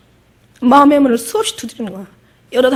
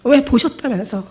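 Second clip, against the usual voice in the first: angry reproach; 3 semitones higher, 4 dB louder than usual. Retold or imitated. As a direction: hurl the why at Jesus, voice rising. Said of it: "여자가 막 화를 내는 거예요".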